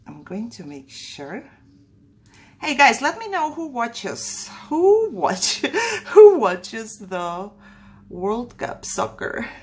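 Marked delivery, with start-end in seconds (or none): 2.6-9.5 laughing, higher call to viewers; excited call-out. Real, not acted. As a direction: call out to the audience with a giggle.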